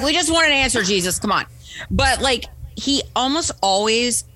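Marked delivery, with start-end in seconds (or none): 0.0-1.4 higher-pitched pleading annoyance; mock exasperation. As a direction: play fed up, begging for a straight answer. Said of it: "super annoying".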